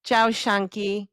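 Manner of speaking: "shanky" with an Argentinian SH for the Y; slow Argentinian "Ciao, shanky"; Argentinian accent. Shown as a demonstration. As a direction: show the Argentinian "sha" sound in "shanky". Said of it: "double L's sounding like S H's".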